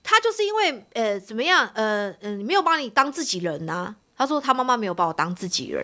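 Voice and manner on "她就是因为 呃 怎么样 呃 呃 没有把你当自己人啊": retold outburst. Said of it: "豪哥就开始讲说".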